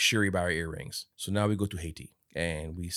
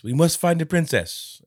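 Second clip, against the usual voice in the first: mock solemn declaration; 8 semitones higher, 6 dB louder, slower than usual. Acts out Okoye's urgent declaration.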